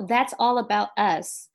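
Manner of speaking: "That's all about us" said slowly with natural stress; careful English reading; model pronunciation. Shown as a demonstration. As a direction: say "That's all about us" deliberately, T unstressed before "us". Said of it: "这位黄先生就是把重音放错了".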